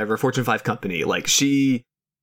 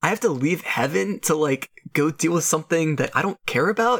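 put-on higher, earnest protesting kid voice; wholesome 1950s kid; 4 semitones higher than usual. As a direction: plead like an innocent 1950s boy. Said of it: "Aw, jeepers, mister".

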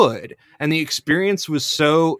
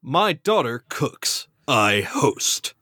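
a hint of a sulky dad who gave up; grumbling father. Voicing the grumbling father pony.

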